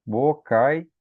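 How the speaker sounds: "Bocaiúva" as bo-cai... Ú... va; U after diphthong. Shown as a demonstration. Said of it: "O U também tá depois de um ditongo". ("Bocaiúva" silabado, u separado do ditongo)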